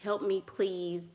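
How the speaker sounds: slow, soft helpless plea; baby voice. Shown as a demonstration. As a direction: beg sweetly, drawn out. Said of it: "when I say baby voice".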